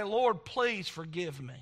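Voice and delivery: slow, subdued plea to God; retold prayer of repentance. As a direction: plead slowly and humbly for forgiveness. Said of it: "had to go to Jesus and".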